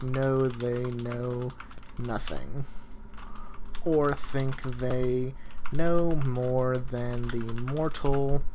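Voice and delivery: slow, deliberate dictating pace for note-taking; slow dictation. Shown as a demonstration. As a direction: spell it out word by word so students can write. Dictating notes to class.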